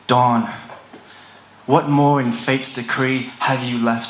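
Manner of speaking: deliberate, solemn verse with long pauses; poem recitation. Acted. Poet recites a heavy, personal poem about fearing dawn, solemn recitation. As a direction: declaim each line and let it settle.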